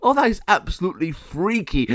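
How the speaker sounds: very high, loud and slow, laughing through the words; a gargoyle cracking up in disbelief. Acted. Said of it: "burst out laughing and said".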